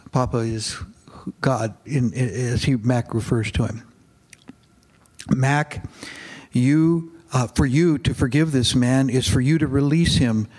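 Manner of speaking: steady read-aloud narration for a congregation; story reading. A narrator's reading. Pastor reading a novel passage aloud to his congregation, measured narration.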